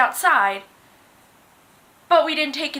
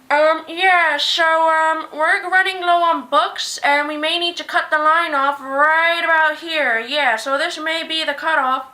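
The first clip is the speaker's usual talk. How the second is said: louder, hesitant staff voice, slow on the bad news; awkward store announcement; 3 semitones higher, 3 dB louder, slower than usual. Store worker telling the waiting line they may be cut off, hesitant and louder.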